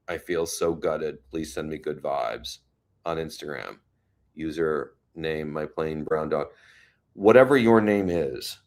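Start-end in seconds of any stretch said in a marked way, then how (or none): 0.1-6.5 low, softened, sober reading; serious. Real, not acted. Reading a viewer's post about her dog, serious. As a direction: read it out gently and gravely. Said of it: "let me get serious for a second".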